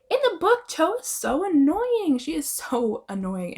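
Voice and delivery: sighing irritation at a character; exasperated rant. Real, not acted. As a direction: roll your eyes at Cho. Ranting about Cho.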